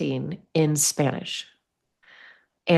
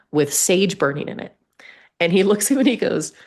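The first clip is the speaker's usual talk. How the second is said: ordinary delivery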